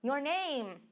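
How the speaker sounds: slow model question; teacher repeating the question slowly; slow recap. Shown as a demonstration. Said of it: "a gente aprendeu com uma pergunta".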